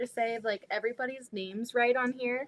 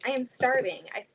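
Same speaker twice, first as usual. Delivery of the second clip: normal talking voice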